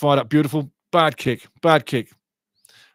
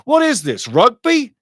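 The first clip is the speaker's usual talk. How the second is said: outraged sarcasm; 8 semitones higher, 4 dB louder than usual. Real, not acted. Outrage at rough challenge.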